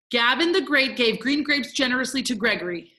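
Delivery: steady, fairly quick recitation; brisk tongue twister. Shown as a demonstration. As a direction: run through the twister without stopping. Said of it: "this one's gonna be tough".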